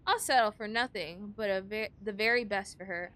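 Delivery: talking through a held-back sneeze; fighting off a sneeze between words; holding back a sneeze. Real, not acted. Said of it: "I'm trying not to sneeze".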